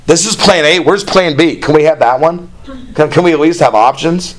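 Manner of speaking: a hint of a petulant servant nagging God; lightly voiced griping Moses; complaining Moses.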